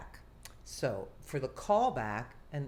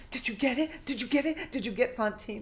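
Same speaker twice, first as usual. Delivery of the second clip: high, loud excited calls; excited shouting; 8 semitones higher, 5 dB louder, faster than usual. Retold or imitated. Castmate rushing downstairs asking if she got the part, excited. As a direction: call out eagerly, voice way up.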